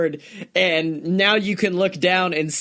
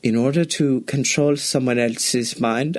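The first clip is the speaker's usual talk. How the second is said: lower, soothing instructor voice; very calm; 5 semitones lower than usual. Retold or imitated. Ride guide calming riders down, lowered calm voice. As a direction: talk them into calm like a guide. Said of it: "someone very calmly, like".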